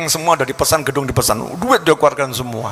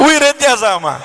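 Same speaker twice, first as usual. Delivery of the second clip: laughing shout; 10 semitones higher, 3 dB louder than usual. Real, not acted. Punchline repeated with laughter.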